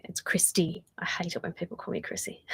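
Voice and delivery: soft unvoiced whisper, as if Christy herself; mock whisper. Vlogger whispering a viewer's complaint about her nickname. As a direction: whisper it like a shared secret. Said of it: "I shouldn't call you Chrissy".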